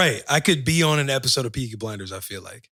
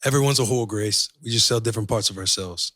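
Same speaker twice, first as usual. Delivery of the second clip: put-on Peaky Blinders accent; 3 semitones lower than usual. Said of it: "I can't really do it there yet".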